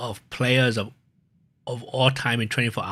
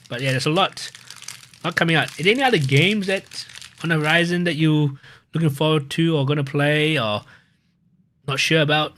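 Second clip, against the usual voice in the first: talking with mouth full; mouth full of peanut butter; 2 semitones higher than usual. Real, not acted. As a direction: mouth full, words round a bite. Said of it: "got a mouth for peanut butter".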